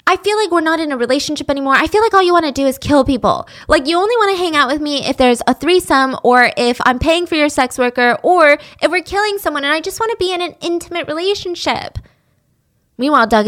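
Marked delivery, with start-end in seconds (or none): 0.1-12.0 upset. Retold or imitated. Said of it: "she's getting upset".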